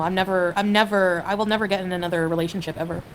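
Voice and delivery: ordinary talk, nothing marked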